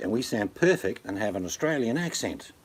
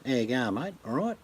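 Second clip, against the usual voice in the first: lightly put-on broad Queensland Aussie; Queensland accent; 4 semitones higher than usual. Shown as a demonstration. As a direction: Queensland accent, rising at the end. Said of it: "they'll talk a bit like this".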